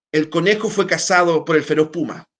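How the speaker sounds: el conejo fue cazado por el feroz puma, read with a literary lilt; literary intonation. Shown as a demonstration. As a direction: give the inverted sentence a storyteller's tune. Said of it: "le estamos dando una entonación distinta". (con entonación literaria)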